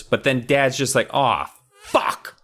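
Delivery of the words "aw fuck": high, loud mock lament; wailing dad. Dad finding his tomatoes, mock anguished wail. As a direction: wail as if heartbroken, hammed-up.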